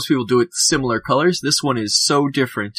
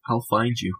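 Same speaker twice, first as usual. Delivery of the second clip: softer, quietly ominous repeat; mock ominous; 3 semitones lower, 4 dB quieter than usual. Host to listeners who post photos, mock ominous. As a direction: drop it quietly, like a joking threat. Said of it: "that didn't sound ominous at all".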